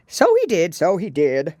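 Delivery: sighing Gryphon. A narrator's reading. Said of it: "sighing in his turn".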